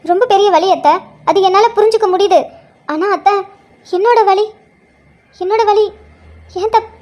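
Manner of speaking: put-on young mother tells mother-in-law of her pain, pleading. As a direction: pour out the hurt to the mother-in-law.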